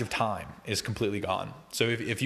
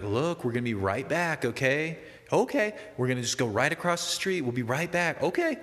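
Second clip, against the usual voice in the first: reassuring grandma; 4 semitones higher than usual. Retold or imitated. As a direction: soothe her like a child, promising to be right back. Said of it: "sit you down and be like".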